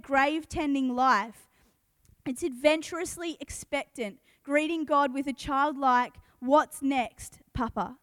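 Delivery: measured reading of a Bible passage; scripture reading. Acted. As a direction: read scripture to the congregation, unhurried. Reads a Bible passage aloud.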